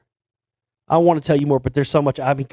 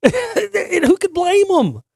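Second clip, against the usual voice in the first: high, slow, laughing through the words; giggling sympathetic aside; 14 semitones higher, much slower than usual. Real, not acted. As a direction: chuckle your way through the question. Amused aside about bored bandmates.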